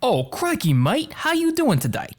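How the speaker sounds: high-pitched put-on Cockney accent; Cockney British. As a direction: squeak it out like a Cockney British boy. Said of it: "That is so Cockney British".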